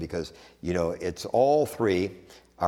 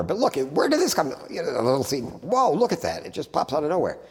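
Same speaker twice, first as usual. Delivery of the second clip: mock amazement; 6 semitones higher than usual. Preacher acting out surprise at a sprouting seed, much higher. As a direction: pitch jumps much higher in wide-eyed wonder.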